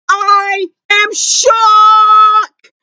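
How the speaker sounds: very slow, stretched disbelief; drawn-out shock. Real, not acted. Fan stunned by the news, drawn-out shock. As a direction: stretch every word out. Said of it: "the loudest you will ever hear me".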